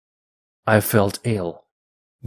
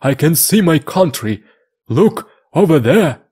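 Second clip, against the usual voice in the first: higher, louder, thrilled cry; excited cry; 6 semitones higher, 5 dB louder than usual. A narrator's reading. Friday spots his country from the hilltop, excited higher cry. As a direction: call out pointing at his homeland across the sea. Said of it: "Friday cried".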